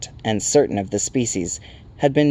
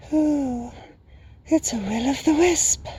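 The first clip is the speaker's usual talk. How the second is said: very high, airy hooting creature; whispering Night Hob; slower than usual. A narrator's reading. Night creature spotting a stranger, high whispery hoot. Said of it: "whispered the Night Hob".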